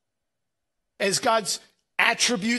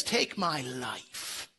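despairing Jonah; 3 semitones lower than usual. Retold or imitated. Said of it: "He actually says this".

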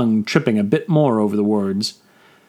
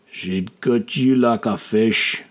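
slow, rumbling brute; low rumble; slower than usual. Acted. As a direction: rumble it out slowly like a big brute. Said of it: "he rumbled".

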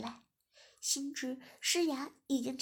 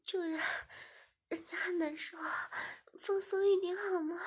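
higher, pleading and breathless; panting; 7 semitones higher than usual. A narrator's reading. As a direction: beg between breaths. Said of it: "边喘气边说".

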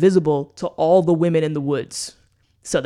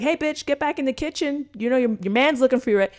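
much higher, cartoonish macho bark; mock macho shepherd; 8 semitones higher than usual. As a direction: ham up a crude yokel bossing his wife. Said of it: "the shepherd's like".

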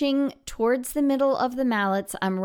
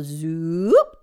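echoed rising slide; 3 semitones lower, 4 dB louder than usual. Shown as a demonstration. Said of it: "they'll go".

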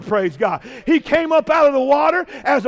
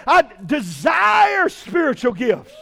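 shouted quote; slower than usual. Shown as a demonstration. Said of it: "quoting Paul then repeating".

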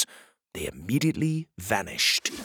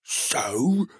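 high husband voice; 5 semitones higher than usual. Acted. Husband character voice.

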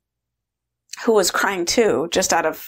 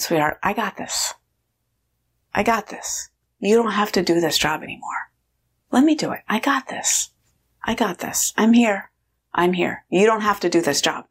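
comforting. Retold or imitated. Woman taking over from her crying food controller, comforting. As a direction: repeat it gently to calm her down. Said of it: "the food indulger and I were comforting".

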